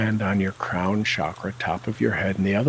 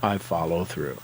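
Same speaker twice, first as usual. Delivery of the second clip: bolder affirmation. Shown as a demonstration. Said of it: "Say it again".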